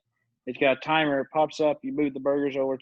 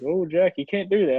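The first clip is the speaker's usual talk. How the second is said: slightly higher imitation of an awkward boss; Bert; 5 semitones higher, 4 dB louder than usual. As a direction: lightly mimic an awkward boss's mild reproach. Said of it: "That's how he talks".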